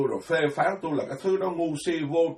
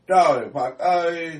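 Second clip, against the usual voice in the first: slow, louder cry of dismay; exasperated exclamation; 2 semitones higher, 6 dB louder, slower than usual. Real, not acted. Monk lamenting to his listeners, slow loud exasperated cry. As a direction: drag it out, exasperated.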